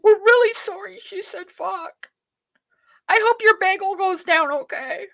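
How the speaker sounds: mocking host apologising to breakfast viewers, sarcastic; mock sorry presenter. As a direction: sneer at the host's politeness.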